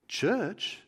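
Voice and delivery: high, puzzled echo question; baffled, pitched well up; clueless newcomer. Acted. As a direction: repeat it as if the word were foreign. Thief has no idea of church.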